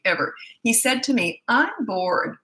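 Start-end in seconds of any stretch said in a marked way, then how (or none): 1.5-2.4 snotty. Retold or imitated. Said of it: "in that snotty, spoiled little tone".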